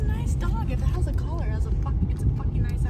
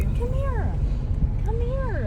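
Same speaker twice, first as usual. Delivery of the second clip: much higher sing-song call to a dog; puppy-calling voice; 10 semitones higher, 5 dB quieter, slower than usual. Real, not acted. Coaxing a lost dog toward the car, high baby voice.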